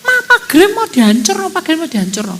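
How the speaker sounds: high, loud alarm to Mama; retold panicked yelling. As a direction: act out yelling a frantic warning. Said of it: "ada apa kamu teriak-teriak".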